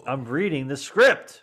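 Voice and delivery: loud, slow declaration; mock protest. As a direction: announce it slowly and emphatically. Mock protest at stilted line.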